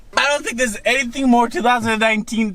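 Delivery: laughing through the words.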